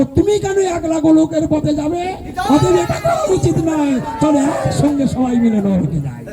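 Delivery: hammed-up coaxing relative; mocking relatives' voice. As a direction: mimic scoffing family members luring him to hell. Mocks relatives' pleading voices.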